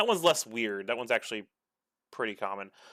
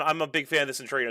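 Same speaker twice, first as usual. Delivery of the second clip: fast reading aloud; much faster than usual. Retold or imitated. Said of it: "And then".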